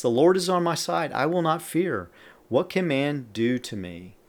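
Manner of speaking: declarative psalm reading; scripture reading. Acted. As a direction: read the verse out to a congregation. Reads psalm verse aloud.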